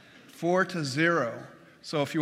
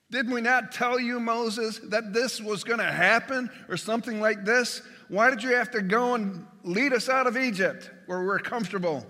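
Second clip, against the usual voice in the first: higher, accusing complaint; blaming; 5 semitones higher than usual. Retold or imitated. Israelites blaming Moses, a hint of whining accusation. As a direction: pin the blame on Moses. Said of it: "a response of blame".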